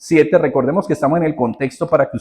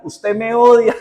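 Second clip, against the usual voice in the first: put-on child's tantrum cry; 7 semitones higher, slower than usual. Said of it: "él empezaba a gritar".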